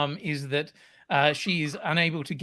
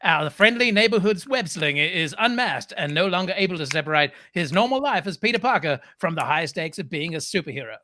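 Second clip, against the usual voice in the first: trailer voice. Pretend. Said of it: "That was a choice of voice".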